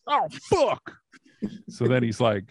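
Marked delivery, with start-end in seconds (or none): 0.1-0.9 high-pitched mock scream; imitated anguished outburst, way up high; Michael Hayes. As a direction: cry out in a put-on screech. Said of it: "And he starts screaming".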